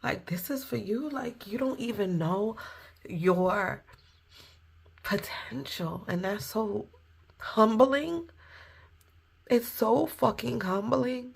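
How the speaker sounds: moved close to tears, pausing between words; emotional. Real, not acted. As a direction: hold back real emotion as you speak. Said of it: "I don't know why I'm getting so emotional".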